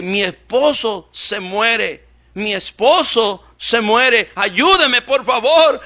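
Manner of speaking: slow, rising into high loud pleading; desperate crying woman. Retold or imitated. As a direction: plead as the panic builds. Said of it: "la señora llorando, gritando".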